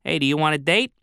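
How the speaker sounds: a woman's Chicago-style accent, lightly acted. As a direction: put on a Chicago accent to proposition someone. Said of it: "in her thick Chicago-style accent".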